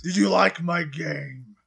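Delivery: slow put-on Batman voice; sick Batman voice. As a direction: drag it out as a sickly Batman. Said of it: "somebody who has a sick voice again".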